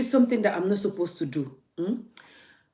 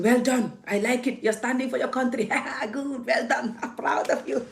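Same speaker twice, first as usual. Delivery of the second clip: mock praise; 6 semitones higher than usual. Mocking hypocrite commenters' praise.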